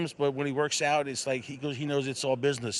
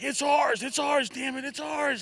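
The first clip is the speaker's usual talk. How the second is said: excited cheering; 10 semitones higher, 4 dB louder, slower than usual. Retold or imitated. Owner cheering horse into the lead.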